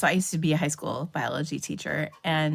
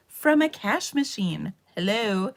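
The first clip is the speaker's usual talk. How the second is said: mock-obvious retort; 3 semitones higher than usual. Acted retort to teasing students.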